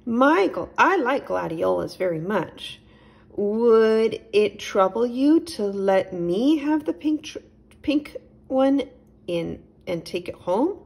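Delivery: a gentle host offering milk; a hint of a friendly little chipmunk; Nigel the chipmunk. A narrator's reading.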